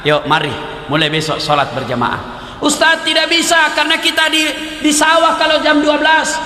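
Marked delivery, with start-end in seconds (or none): 2.6-6.4 high-pitched excuse-making protest; protesting villager. Acted. Farmer telling the ustaz he cannot attend, protesting. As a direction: object insistently, pitched well up. Villager's acted objection to the preacher.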